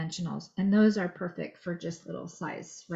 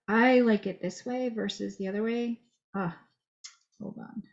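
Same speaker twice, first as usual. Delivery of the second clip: chewing gum; 2 semitones higher than usual. Real, not acted. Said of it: "Hard to talk and chew gum".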